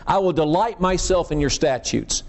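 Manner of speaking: "delight" leaned on with feeling; emphatic "delight" in a recited verse; stress on delight. Shown as a demonstration. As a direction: lift and press the word "delight". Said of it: "here's the emphasis to me".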